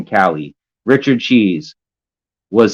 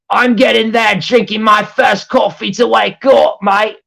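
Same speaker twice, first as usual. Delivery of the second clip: much higher, put-on sleepy old lady voice; mock old lady; 13 semitones higher than usual. Streamer mocking Rogue Angel's coffee message as a high old lady. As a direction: drag it out like a doddery old woman.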